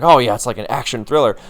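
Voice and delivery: lightly sarcastic fake enthusiasm; mock sarcastic. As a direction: feign being thrilled, with mild sarcasm. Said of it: "make it sound sarcastic".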